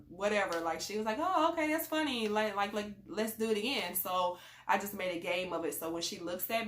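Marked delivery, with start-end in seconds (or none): 1.2-4.0 put-on high delighted kid voice; a touch of a delighted child; excited child voice. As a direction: sound tickled and eager. Voicing daughter's delight.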